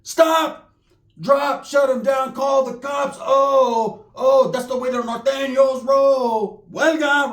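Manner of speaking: hammed-up rapper chant, shouted high; impression of a rapper. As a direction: yell it like a rapper on stage. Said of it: "D M X".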